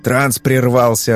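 mildly annoyed, slow reply; a touch of exasperation; irritated. Acted. Hypnotist annoyed at the broken trance, irritated. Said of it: "раздражённо ответил Феликс".

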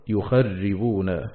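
"يخربون" very slowly as yukharribūn, ra doubled. Shown as a demonstration. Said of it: "مشددا".

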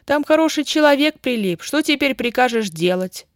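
high-pitched indignant scolding; с упрёком. A narrator's reading. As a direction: scold him, starting high and loud. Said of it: "набросилась она на Петьку". (возмущённо наседать)

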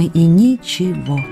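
ничего drawn out slowly, syllable by syllable; slow, disappointed emphasis. Acted. Wife found no letters from him, ничего slowly stressed. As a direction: stretch out ничего to show the empty result.

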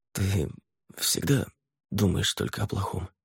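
quiet, hoarse and hesitant; hoarse question. A narrator's reading. Laverne nervously asking Fay, hoarse. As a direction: ask it through a dry throat. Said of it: "хрипло спросил".

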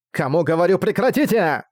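climbing to a high final word; exasperated command. Acted. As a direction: order them to stop, fed up. Emilia orders the singing stopped.

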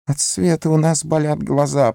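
high whine; whining Gollum. A narrator's reading. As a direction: whine it like a hurt creature. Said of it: "проскулил Горлум".

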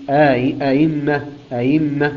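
أئمة with the second hamza softened, no alif inserted; eased hamza. Shown as a demonstration. Teacher demonstrating the exception, measured recital. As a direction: ease the hamza in أئمة without lengthening. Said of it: "يقرأها قالون بالتسهيل".

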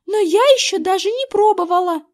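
put-on girl protests she never got a turn; girl protesting. A narrator's reading. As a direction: object like a left-out girl. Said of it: "запротестовала Эрин".

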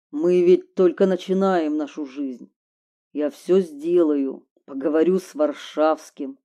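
a hint of a cool lover; lightly voiced man. Man's voice again.

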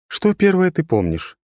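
high, level, unchanging tone; monotone girl. A narrator's reading. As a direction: say it with no inflection. Трила speaks.

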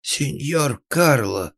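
slow, high pleading. A narrator's reading. The frightened carpenter begging Karl, high slow plea. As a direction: beg him, drawing out his name. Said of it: "взмолился мастер".

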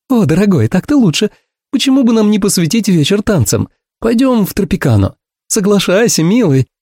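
high, bubbly woman's voice; pleased Ursula. A narrator's reading. Ursula coaxing him to go dancing, high and bubbly.

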